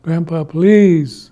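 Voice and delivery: drawn-out, slow plea; long, falling, tearful "please"; near tears. Acted. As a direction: beg as if about to cry. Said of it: "about ready to cry".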